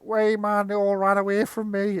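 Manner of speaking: put-on strut it out in a Geordie-style Sunderland accent. Game master voicing strutting Rab in a Sunderland accent. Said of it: "the accent I've just done was a Sunderland accent".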